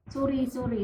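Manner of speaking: "sorry" in a hard Bisaya accent; English "sorry" said with a Bisaya accent. Shown as a demonstration. Teacher shows how locals say sorry, Bisaya accent. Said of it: "we have our own accent on how to say sorry".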